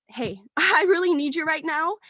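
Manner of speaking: laughing nervously while asking for help; a teary little laugh through the plea. Retold or imitated. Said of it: "but I told her".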